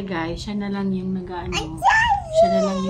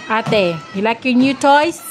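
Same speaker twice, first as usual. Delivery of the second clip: slow, louder question rising at the end; 3 semitones higher, 6 dB louder than usual. Real, not acted. Asking child about new toys. (mabagal at pataas na tanong sa anak)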